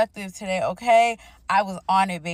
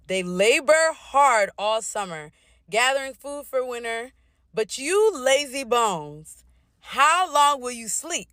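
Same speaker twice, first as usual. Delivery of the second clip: scripture reading. Acted. Reads a Bible passage aloud.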